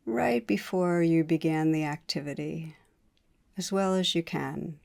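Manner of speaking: unhurried meditation guide, pausing between phrases; guided meditation. Real, not acted. Teacher leading listeners to notice wanting in the body, guided meditation. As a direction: guide listeners inward calmly, leaving space between phrases.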